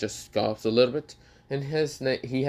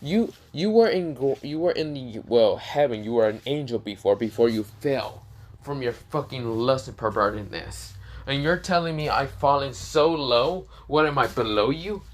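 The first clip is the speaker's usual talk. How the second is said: heated retort; 3 semitones higher than usual. Acted. Issei confronts Azo angrily.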